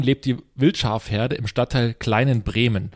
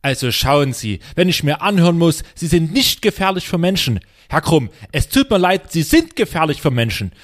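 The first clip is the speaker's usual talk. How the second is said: angry resident; 3 semitones higher, 4 dB louder than usual. Acted. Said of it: "ich spreche quasi den Anwohner".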